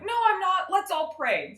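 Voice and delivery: hammed-up pious girl voice; mock innocent daughter. Daughter denies, suggests praying.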